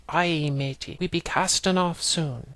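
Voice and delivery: lightly voiced pirate accent; a hint of pirate accent. Shown as a demonstration. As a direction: read it with a mild pirate accent. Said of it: "say it in that weird accent".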